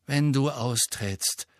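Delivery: irritated. Acted. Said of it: "sagte Harry gereizt".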